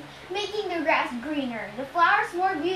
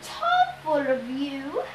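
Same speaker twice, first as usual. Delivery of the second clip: high, stammering fake-sweet falsetto; nervous Grover; 7 semitones higher than usual. A narrator's reading. Captive Grover humours his Cyclops groom, gulping nervously. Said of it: "Grover gulped".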